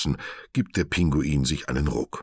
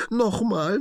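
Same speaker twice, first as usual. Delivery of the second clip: much higher, bouncing repeat; high gleeful call; excited shout; 3 dB louder than usual. A narrator's reading. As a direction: keep begging, thrilled. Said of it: "ruft er begeistert".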